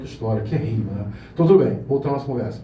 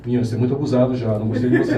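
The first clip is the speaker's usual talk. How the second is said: a singer; 5 semitones lower, faster than usual. Retold or imitated. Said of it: "já falando assim com ele, meio assim".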